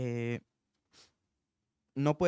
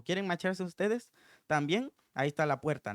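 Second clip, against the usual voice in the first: blunt dismissal; 5 semitones higher than usual. Acted. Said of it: "Haz de cuenta que así le dijo en ese tono".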